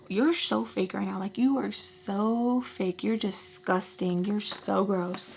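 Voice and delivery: quiet contempt, each word stretched; disgusted. Retold or imitated. Muttered disgust at fake act.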